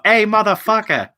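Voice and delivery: high, loud rough hello; crude loud greeting. Pretend. Code switching for the movie, a crude shouted hello. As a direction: bellow it like a trucker. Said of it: "That's now".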